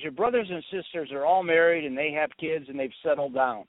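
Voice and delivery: mother's reproach, rising on the accusation; lightly voiced disapproving mom. Mother compares her son with married siblings, lightly voiced disapproving mom. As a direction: mildly imitate a mother's scorn for bachelors. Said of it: "the way she said bachelor".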